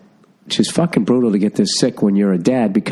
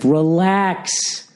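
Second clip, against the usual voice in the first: mock calm; 9 semitones higher than usual. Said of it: "I would have been like".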